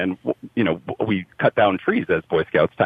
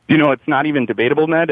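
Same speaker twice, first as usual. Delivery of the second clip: excited; 7 semitones higher, 3 dB louder, faster than usual. Real, not acted. Playful sports fan boast.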